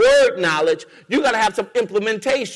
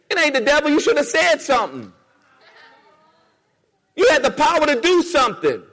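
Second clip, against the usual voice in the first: higher, rising preacher fervor; getting too excited; 5 semitones higher than usual. Real, not acted. Preacher to congregation, getting carried away, excited and higher. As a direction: build the heat toward the climax. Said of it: "getting too excited".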